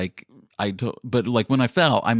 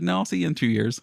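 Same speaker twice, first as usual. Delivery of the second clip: higher, chuckling brush-off; laughing retort; 6 semitones higher, faster than usual. Retold or imitated. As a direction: laugh off the invitation. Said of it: "I said".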